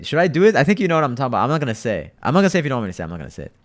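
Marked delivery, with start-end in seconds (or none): 0.0-1.4 teasing. Real, not acted. Teasing chat about exposing him.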